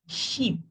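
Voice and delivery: Sheep with a long stretched ee. Shown as a demonstration. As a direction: hold the ee in Sheep. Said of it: "longer E in sheep".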